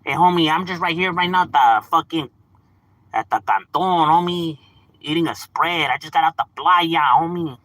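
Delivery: lightly put-on homie talk; a hint of hammed-up gangster; mock gangster homie. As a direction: imitate a try-hard gangster homie. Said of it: "you're not looking down and gangster".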